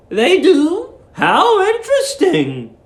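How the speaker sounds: put-on high, sweet old landlady. A narrator's reading. Old landlady cooing at young guest Billy, high and sweet. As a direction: coo it like a doting landlady.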